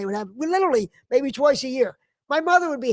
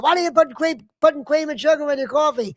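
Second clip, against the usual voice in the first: higher-pitched, mildly indignant retold scolding; imitating mad father; 3 semitones higher than usual. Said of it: "he would get so mad".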